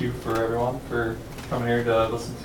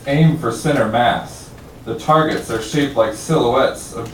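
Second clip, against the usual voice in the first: measured, emphatic poem recital; projected spoken-word delivery with deliberate pauses; poem reading; 4 dB louder than usual. Acted. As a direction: read your poem out to a listening room, line by line. Reads own poem aloud.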